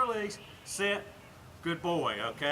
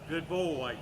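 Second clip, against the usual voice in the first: light praise; 3 semitones lower than usual. Shown as a demonstration. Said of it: "with a little bit of light praise".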